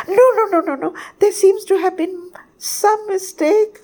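high, squeaky bird in a flustered panic; hysterical outburst. A narrator's reading. Tiny bird begs sun to choose anyone else, hysterical. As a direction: protest frantically, stammering from one name to the next. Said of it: "my hysterical pow-, outburst".

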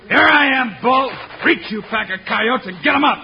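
high, loud ambush command; commanding shout. Acted. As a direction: bark them into surrender. Hero springs the ambush.

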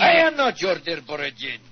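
loud angry rebuke; angry shout. Acted. Envoy shouting down the Englishman in anger. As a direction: fling the words back at him. Heated political argument.

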